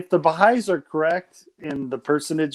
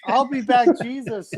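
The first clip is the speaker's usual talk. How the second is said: put-on British accent; 7 semitones higher than usual. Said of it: "the British accent Jesus".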